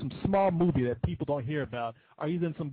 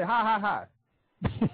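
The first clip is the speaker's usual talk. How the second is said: higher-pitched, spaced-out "ha, ha, ha"; demonstrated fake laugh; 7 semitones higher, slower than usual. Shown as a demonstration. Host coaches the Joker caller how to laugh, fake laugh. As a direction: show him a mock villain laugh. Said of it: "And laugh at him. Say".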